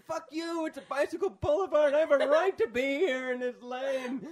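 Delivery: high, loud, indignant shriek; imitated angry yelling. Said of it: "she was just yelling back at him like".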